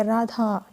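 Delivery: राधा called out with the final आ stretched long; drawn-out call. Shown as a demonstration. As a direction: stretch the vowel in राधा as if calling her name. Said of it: "इस तरह से लंबा सा लग रहा होगा". (राधा को पुकारते हुए आ लंबा खींचें)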